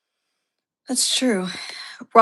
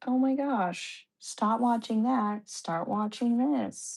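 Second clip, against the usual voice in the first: slow, soft mock exasperation; quietly imploring, each order drawn out; retold pleading; 6 dB quieter than usual. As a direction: drag out the retold plea, softly. Retold exasperated urging to switch shows.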